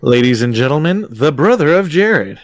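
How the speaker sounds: playful announcer's introduction, pitch swooping; mock announcer. Game master hailing a player's quip, mock announcer. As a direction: introduce them like a show host.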